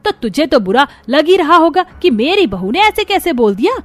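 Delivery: mother-in-law sarcastically scolding the elder daughter-in-law; sarcastic scolding. Acted. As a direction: taunt her loudly and sarcastically.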